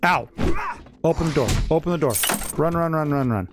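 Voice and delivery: urgent panicked calls; hurry, panicked, under attack; being chased. Real, not acted.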